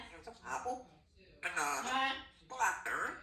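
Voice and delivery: sing-song food names. Real, not acted. Parent names fruits for the baby in sing-song. Naming foods to child.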